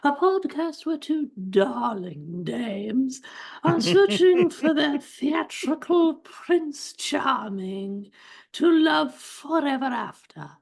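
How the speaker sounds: high, slow, grand announcer voice; podcast intro announcer. Acted. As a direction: sweep them in like a royal herald.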